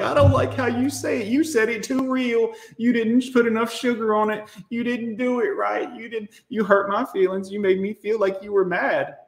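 mocking whiny critics. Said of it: "they're like".

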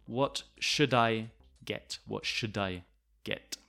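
"should I" as "shu-dai" inside the question; blended "what shu-dai get"; linked D. Shown as a demonstration. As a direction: run D onto "I". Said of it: "we say sh".

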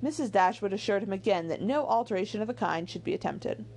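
animated, measured novel reading; lilting storybook delivery; story narration. A narrator's reading. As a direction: read it aloud like an audiobook narrator. Reads the novel aloud.

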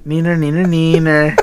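put-on sing-song childish teasing; playground taunt. Teasing an angry friend, playground taunt. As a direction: needle him like a schoolkid.

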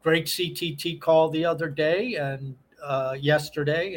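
normal talking voice

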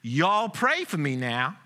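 put-on a light Southern accent, slowed, a small boy calling out; lightly voiced Southern child, drawn out and pleading; preacher mimicking a boy carried out of church in a light Southern accent; Southern child's accent. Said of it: "crying out in his charming Southern accent".

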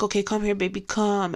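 gentle coaxing. Retold or imitated. Owner calls sad dog out from under couch, gentle coaxing. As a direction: coax him over softly.

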